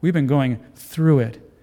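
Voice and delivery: "through" set apart and drawn out; stress on through. Real, not acted. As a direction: lean slowly on the word "through". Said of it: "I want to emphasize that word".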